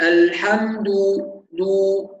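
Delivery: "الحمد" ending in a full, rounded "duu"; rounded damma. Shown as a demonstration. Teacher drills the class, الحمد with a full u on the dal. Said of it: "ننتبه إلى ضم الدال".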